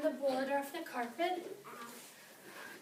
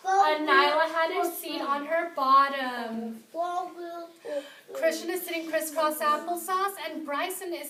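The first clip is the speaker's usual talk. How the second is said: loud teacher voice; 6 dB louder than usual. Real, not acted. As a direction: project to the class. Teacher addresses whole class.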